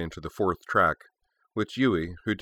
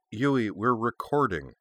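fond exasperation; 4 semitones higher, slower than usual. Acted. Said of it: "a note of long-suffering, fond exasperation".

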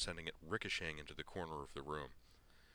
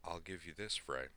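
restrained anger. Acted. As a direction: keep the fury tightly reined. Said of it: "in a carefully restrained voice".

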